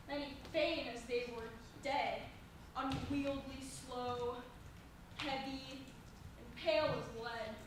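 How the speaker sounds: low, halting delivery; heavy and plodding. Acted. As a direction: drop the voice and drag out each word. Juliet mocks slow old folks.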